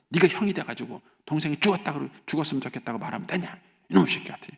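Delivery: lightly acted parental telling-off; mock scolding. Parent telling off the older brother, mild scolding. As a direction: push the words out as a reproach. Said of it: "막 혼내요".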